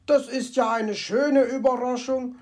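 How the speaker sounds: mild happy exclaim; delighted. Acted. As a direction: glad at finding a treasure. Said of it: "freute er sich".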